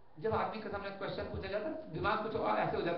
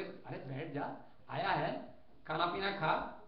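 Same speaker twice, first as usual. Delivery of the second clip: soft, lower, easy invitation; welcoming host; 3 semitones lower, 6 dB quieter, slower than usual. Acted. Driver welcomes the guest home, soft and easy. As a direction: settle the guest down gently.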